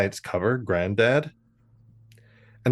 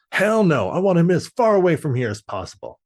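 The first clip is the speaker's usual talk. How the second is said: blunt granddad; 5 semitones higher, 3 dB louder than usual. Retold or imitated. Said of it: "he's like".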